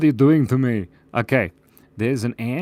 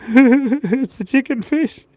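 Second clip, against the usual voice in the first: excited; 12 semitones higher, 6 dB louder, slower than usual. Pretend. Revealing silly drawing.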